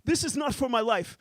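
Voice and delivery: hammed-up sheik indignation. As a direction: play the pampered sheik scolding. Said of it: "I kinda become the sheik".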